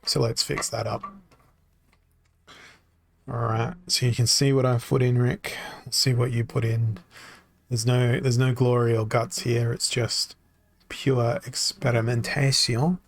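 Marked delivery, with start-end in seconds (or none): 5.8-7.0 whisper. Real, not acted. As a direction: breathe it out as a whisper. Peeking at teammate's team.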